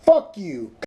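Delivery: high, loud outburst of insults; real angry yelling. Real, not acted. Man hurls insults back at scam caller, real angry yelling.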